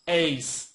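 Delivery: "এইচ" as standard "eich", no h at the front; correct H pronunciation. Shown as a demonstration. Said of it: "Correct pronunciation is". ("এইচ"-এর প্রমিত উচ্চারণ, জোর দিয়ে)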